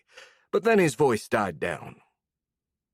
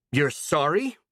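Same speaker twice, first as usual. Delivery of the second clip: higher, louder disbelief; 5 semitones higher than usual. Acted. A girl turning on the old woman, louder. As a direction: raise the voice in rising anger. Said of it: "she said louder".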